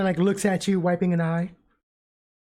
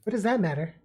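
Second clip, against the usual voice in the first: testy; 5 semitones higher, slower than usual. Acted. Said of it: "she kinda says".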